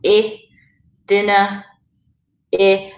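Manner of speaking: "I" as a short ih, "dinner" as DIN-uh; short I sound. Shown as a demonstration. Teacher showing I without fada, short ih. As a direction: sound out each one apart with a short ih. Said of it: "then you have the I sound".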